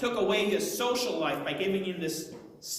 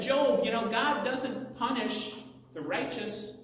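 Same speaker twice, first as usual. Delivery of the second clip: lightly voiced lecturing friends, pitched up; a touch of accusing sermon; preaching; 4 semitones higher than usual. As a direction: preach at him with a raised pitch. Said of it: "they ended up preaching to him".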